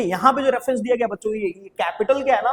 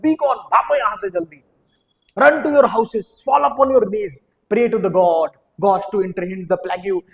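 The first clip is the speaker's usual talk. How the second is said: acted scolding, louder in bursts; mildly angry; 3 dB louder, much slower than usual. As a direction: send them off with mock anger. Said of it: "गुस्सा में आकर मैरलस बोल रहा था". (हल्के नाटकीय गुस्से में)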